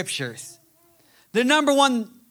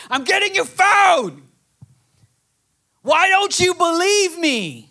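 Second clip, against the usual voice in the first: higher, louder frustrated father; dad losing patience, raised voice; exasperated dad; 6 semitones higher, 4 dB louder than usual. Retold or imitated. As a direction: plead with a stubborn kid. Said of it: "It's like my kid, Shiloh".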